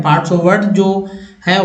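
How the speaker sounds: parts of word spelled out slowly; drawn-out teacher demo. Shown as a demonstration. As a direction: draw out "parts of word" for the class.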